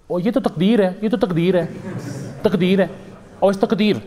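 hammed-up shrug, it's destiny; resigned mother-in-law. Mother-in-law blames fate.

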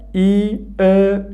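ای، او، said slowly, each vowel held apart; vowel demo. Shown as a demonstration. Teacher demonstrating the vowels to students, slow and clear. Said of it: "حرف صدادار آخرین هجای واژه".

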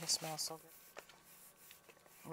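breathless hushed whisper, slow; whispering to herself over the biscuits; whispered delight. Real, not acted. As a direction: savor it under your breath. Savoring the biscuit smell.

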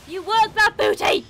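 loud, slow hype cheer. Real, not acted. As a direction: egg him on like a coach. Cheering character up stairs.

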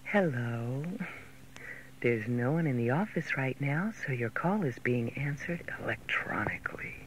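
low, hushed, secretive voice; whispered greeting. Shown as a demonstration. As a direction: breathe the message softly. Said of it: "Now, listen".

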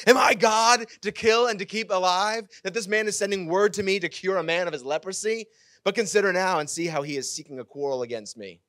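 high, loud, theatrical cry of a panicked king; a king tearing his clothes, crying out in alarm; dramatic outburst. Acted. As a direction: throw up your hands and wail it. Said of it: "I kinda got a little bit dramatic here".

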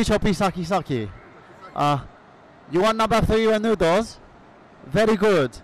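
put-on comic South Asian or Iranian accent; put-on Iranian cousin accent. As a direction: play the foreign cousin with a thick accent. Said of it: "Michael Burhan's Iranian cousin".

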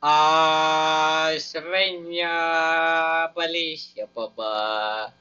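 very slow, drawn-out mock chant; meme reference. Gamer doing a meme reference, drawn-out mock chant. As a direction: stretch every syllable like a meme. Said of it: "I'm gonna do a reference".

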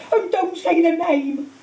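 slow, high, tearful plea; sobbing. A narrator's reading. Hagrid begging Harry not to name Voldemort, sobbing. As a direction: plead through acted sobs. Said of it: "sobbed Hagrid".

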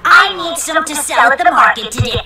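witch voice. Acted. Witch gives orders.

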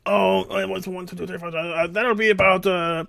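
put-on counting up the bill in accent; Hispanic accent. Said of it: "With the accent".

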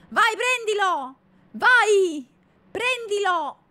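loud high urging, slow at first; shouting commands. Real, not acted. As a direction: egg the dog on. Urging the dog to attack. (incitamento urlato al cane)

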